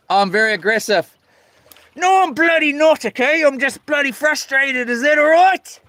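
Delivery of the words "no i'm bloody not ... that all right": mock indignant. Denies being aggressive, riled.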